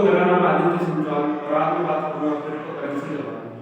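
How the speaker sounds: echoing room sound. Real, not acted. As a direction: voice bouncing off bare walls. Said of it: "इको बहुत ज्यादा आ रहा है".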